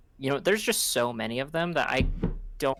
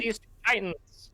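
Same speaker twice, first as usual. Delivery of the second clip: fighting game announcer; 8 semitones higher than usual. Acted. Continuing the announcer bit.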